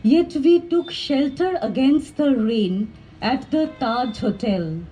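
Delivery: measured poetry reading with pauses after phrases; deliberate, carefully phrased poem reading; poem recital. Acted. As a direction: read it as verse, each line falling to a close. Reads second poem aloud.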